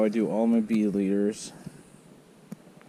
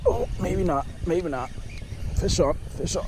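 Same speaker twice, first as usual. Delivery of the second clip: excited; 7 semitones higher than usual. Real, not acted. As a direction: call out the hooked fish. Fish strikes suddenly.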